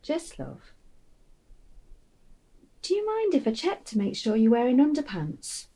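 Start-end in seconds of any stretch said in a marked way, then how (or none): 0.0-0.7 lower, softer, sadder call of his name; low tender call. Acted. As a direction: say his name as if he might answer. Mother calling son, voice dropping.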